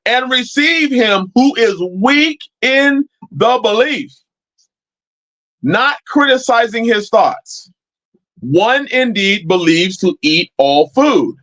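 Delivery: slow, deliberate reading of the verse; scripture reading. Acted. Preacher reading Romans to the congregation, slow and deliberate. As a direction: read each phrase weightily.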